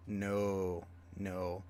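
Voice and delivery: deadpan quiet denial; quiet flat no. Retold or imitated. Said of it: "And they're like".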